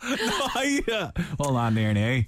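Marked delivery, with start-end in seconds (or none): 1.4-2.2 low, put-on Northern Irish accent; light imitation of a Northern Irish accent. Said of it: "little bitty bit of accent".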